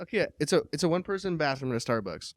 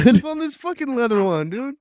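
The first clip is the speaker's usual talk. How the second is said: loud; 10 semitones higher, 8 dB louder than usual. Real, not acted. Urging friend, loud high voice.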